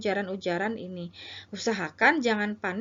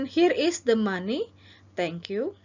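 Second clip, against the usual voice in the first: customer role; 4 dB louder, slower than usual. Shown as a demonstration. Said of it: "dengan mengatakan".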